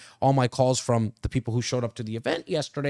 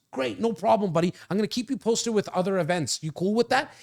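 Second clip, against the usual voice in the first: easygoing salesman reply, pitched up; breezy reassurance; 6 semitones higher than usual. Acted. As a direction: brush the excuse off like a pal. Acted breezy reply to excuses.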